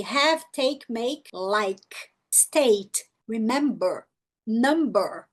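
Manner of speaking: each word ending on its consonant; silent final E. Shown as a demonstration. Teacher listing examples, final E left silent. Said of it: "A letra E não é pronunciada".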